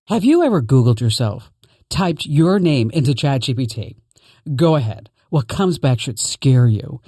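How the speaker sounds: radio sponsor read. Acted. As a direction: sell it like a host-read ad. Reads a sponsor ad.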